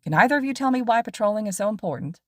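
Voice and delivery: lively pro hero explaining to students; cheerful teacher lecturing his two students on patrol; upbeat hero teacher. Acted. Mike Sensei quizzing students.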